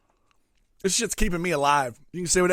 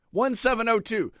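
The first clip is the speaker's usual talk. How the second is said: slow, higher, spelled-out code; slow and raised, as if not understood; exasperated repeating; 5 semitones higher than usual. Retold or imitated. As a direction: repeat "One seven oh two" slowly, digit by digit. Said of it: "I have to repeat everything".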